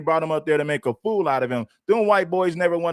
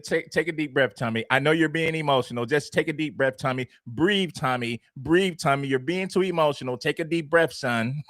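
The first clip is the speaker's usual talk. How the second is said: condescending, soothing mock of a white guy, softer; mocking calm-down voice; 4 dB quieter than usual. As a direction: talk him down like a fussy child, mocking. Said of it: "That white guy said".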